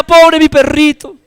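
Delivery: put-on high, slow little girl's lament; lightly voiced girl mourning her dog; grieving girl. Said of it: "Y la niña decía".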